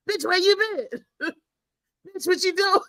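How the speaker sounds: a wife cooing at her man, laughing; mock sweet talk. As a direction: coo it with a laugh. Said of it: "You be the".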